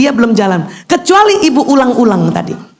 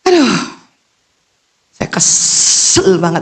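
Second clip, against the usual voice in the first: mock complaint; 2 semitones lower, slower than usual. Shown as a demonstration. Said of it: "ya saya katakan".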